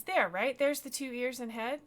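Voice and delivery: high, loud and excited; eager boy. Acted. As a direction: point it out with boyish eagerness. Boy eagerly pointing out moon shape.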